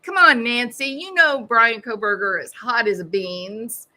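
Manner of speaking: taunting. Retold or imitated. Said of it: "that's what she said".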